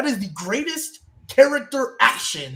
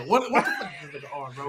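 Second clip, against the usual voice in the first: much higher, fast and laughing; shocked squeal; 4 semitones higher, 6 dB quieter, faster than usual. Retold or imitated. Retelling his reaction to Roman's stunt, a high shocked squeal. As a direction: squeal it in disbelief.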